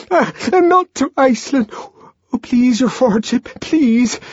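shrill, loud pleading; abject begging. A narrator's reading. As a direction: beg on your knees. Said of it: "in a paroxysm of abjection".

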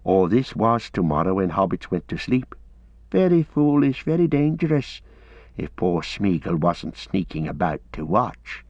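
whining, self-pitying creature reproach; Gollum, scolding. Acted.

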